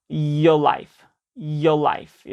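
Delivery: "your life" with R flowing straight into a light L; linked R-L. Shown as a demonstration. Teacher shows the sounds in sequence, linked "your life". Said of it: "이런 식으로 되고".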